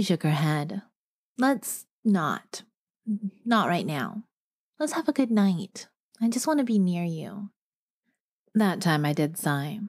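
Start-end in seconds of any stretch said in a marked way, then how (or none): 1.4-7.5 a hint of a tired girlfriend asking to drop it; lightly voiced girlfriend avoiding the topic; Ophelia's voice. Narrator voicing Ophelia.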